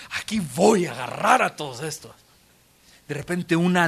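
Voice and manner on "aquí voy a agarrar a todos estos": eager zeal. Retold or imitated. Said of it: "con esa emoción de".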